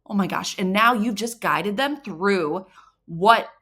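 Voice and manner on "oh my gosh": mock gasp. Shown as a demonstration. Mock excitement at discovery.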